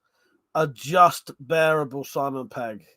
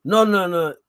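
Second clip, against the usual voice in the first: shopkeeper's refusal in a put-on Welsh accent, louder; a slipped-in Welsh lilt on the no's; mock Welsh accent; 3 semitones higher, 5 dB louder than usual. Imitating the corner shop man refusing in a Welsh accent. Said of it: "I may have been putting on an accent".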